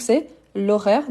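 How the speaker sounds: l'horaire said as one smooth word, h unsounded; slow, linked l'horaire for learners; teacher models l'horaire with elision; silent h demo. Shown as a demonstration. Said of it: "c'est un H muet".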